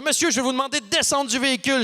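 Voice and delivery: put-on annoyed cop ordering the drunk driver out of the car, quick and stern; mock annoyed cop. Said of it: "Là, il s'énerve".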